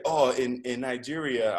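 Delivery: a light, self-mocking Nigerian accent; playful, half-hearted Nigerian accent; horrible Nigerian accent. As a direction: imitate the driver's Nigerian accent, badly and gently. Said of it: "I'm doing a horrible Nigerian accent".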